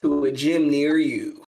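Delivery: slow, loud, booming announcer delivery. Pretend. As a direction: announce it like a fighting game intro. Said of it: "Swish into announcer voice like nothing".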